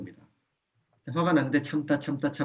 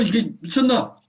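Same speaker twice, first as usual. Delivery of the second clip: high, loud furious scolding; angry yell; 8 semitones higher, 7 dB louder than usual. Shown as a demonstration. Parent exploding at a child who threw something, yelling. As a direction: blow up at the child. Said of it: "이렇게 가면은 감정을 분리해내지 못한 거예요".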